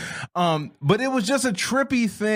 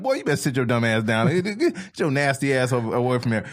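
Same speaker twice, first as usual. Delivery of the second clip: lower, quick mock telling-off; scolding mom; 5 semitones lower than usual. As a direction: imitate a mother ordering a boy about. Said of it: "Like she was his mom or his teacher".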